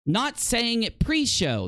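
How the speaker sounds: sarcastic echo. Retold or imitated. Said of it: "The only thing that's ever been said".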